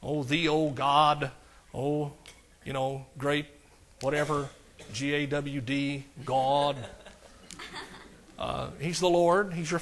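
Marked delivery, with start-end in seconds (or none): 0.0-4.5 slow, drawn-out churchy prayer voice; lightly hammed-up preacher tone; mock sing-song prayer. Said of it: "you don't have to get into some sing-song". 4.9-6.0 GAWD stretched slowly into a long vowel; mock drawn-out GAWD. Shown as a demonstration. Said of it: "some sing-song". 6.2-6.8 slow, drawn-out churchy prayer voice; lightly hammed-up preacher tone; mock sing-song prayer. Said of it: "you don't have to get into some sing-song".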